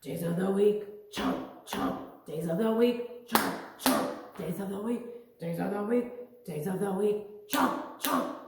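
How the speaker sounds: growly shark chant. Pretend. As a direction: chomp like a hungry shark. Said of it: "Get your shark voices".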